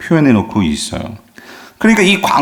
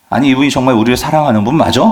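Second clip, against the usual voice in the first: doubting, angry aside; faster than usual. Retold or imitated. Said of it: "그런 화가 나고".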